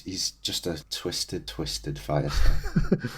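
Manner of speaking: slow, soft, sung-like "twisted fire starter"; drawled lyric. Shown as a demonstration.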